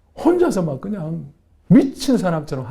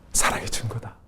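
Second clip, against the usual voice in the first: softly echoing, lower; soft inner voice; 3 semitones lower, 7 dB quieter than usual. Retold or imitated. Inner voice of God echoing in her heart, soft. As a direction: let it resound quietly inside. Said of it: "내적인 음성이 속에서 울려 퍼지는".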